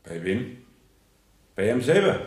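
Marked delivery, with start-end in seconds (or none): 1.6-2.2 laughing. Real, not acted. Sly answer about the police.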